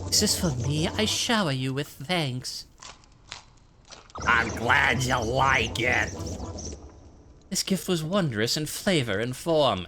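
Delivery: lightly voiced game characters; a hint of a theatrical game character; moth and cook voices. Moth and cook exchange lines.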